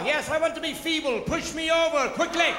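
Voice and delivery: high, loud mock old-person plea; mock feeble old person. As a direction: ham up a frail elder asking to be pushed. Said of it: "old people started that way".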